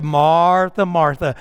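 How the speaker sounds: drawn-out first name, lightly indulgent; mildly amused, kindly chiding; amused fond chiding. Shown as a demonstration. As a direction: imitate a head-shaking, affectionate reproach. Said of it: "shook his head and laughed".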